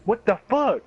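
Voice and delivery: high surprised what-the-fuck; mock shocked outburst; startled. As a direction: imitate a confused driver. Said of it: "he's like".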